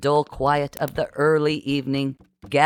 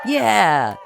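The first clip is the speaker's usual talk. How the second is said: high, loud crowd cheer; rousing yell of agreement; 6 semitones higher, 5 dB louder than usual. A narrator's reading. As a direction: cheer it out like a mob. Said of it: "everyone cheered".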